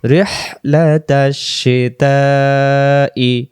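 slow, drawn-out chanted recitation of each syllable; slow Quran recitation. Shown as a demonstration. Teacher reciting slowly for students to repeat.

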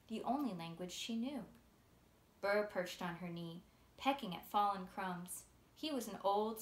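put-on steady, gentle read-aloud of a children's novel; story narration. A narrator's reading. Author reading her book's first chapter to listeners, storytelling voice.

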